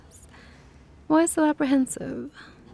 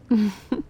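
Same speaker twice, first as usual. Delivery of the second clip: short closed-mouth laugh; small indulgent laugh; amused chuckle; 4 dB louder than usual. Acted. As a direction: chuckle briefly to yourself. Enjoys the human's pretty face.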